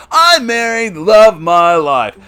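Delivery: high, loud anime hero voice; anime protagonist voice. Pretend. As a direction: play the eager anime hero. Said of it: "I'm giving the, the anime anta-, protagonist voice".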